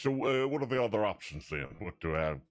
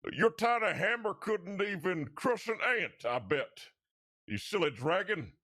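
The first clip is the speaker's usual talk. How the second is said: mocking jeer pitched much higher, slowing down; berating taunt; 10 semitones higher than usual. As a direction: taunt the dragon like it's a joke. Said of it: "shouting at it, beratingly saying".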